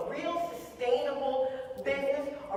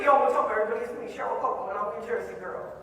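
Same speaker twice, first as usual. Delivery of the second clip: put-on old vlogger intro; 2 semitones lower, 5 dB louder, faster than usual. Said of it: "Don't you remember the".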